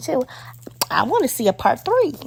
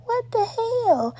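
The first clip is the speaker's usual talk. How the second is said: much higher and slow, drawn-out disbelief; shocked disbelief; 11 semitones higher, much slower than usual. Retold or imitated. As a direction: stretch it out in stunned outrage. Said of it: "and I'm like".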